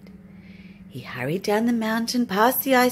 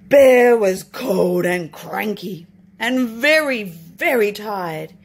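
slow and weary; 7 dB louder, slower than usual. A narrator's reading. Narrating tired bear.

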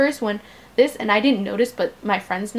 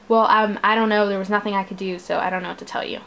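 backing down scared; 3 semitones lower, faster than usual. Retold or imitated. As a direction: lose your nerve and trail off under your breath. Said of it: "I just kinda got scared and I sort of backed down".

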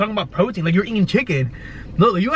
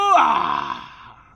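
low groan. Retold or imitated. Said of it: "my exact words during the squat".

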